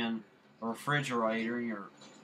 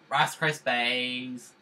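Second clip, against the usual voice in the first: mock scream; 5 dB louder, much slower than usual. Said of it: "just screaming out".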